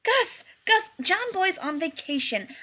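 high, eager calls; excited. A narrator's reading. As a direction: bounce with excitement. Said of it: "said excitedly".

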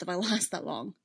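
a short bitter laugh mid-line. Acted. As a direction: laugh darkly at your own fate. Obi-Wan, bitter about his imprisonment.

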